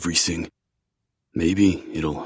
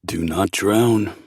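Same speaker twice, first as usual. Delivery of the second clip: flat, slow deadpan monotone; slower than usual. Acted. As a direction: say it slow, without colour. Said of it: "Valen replies in a monotone voice".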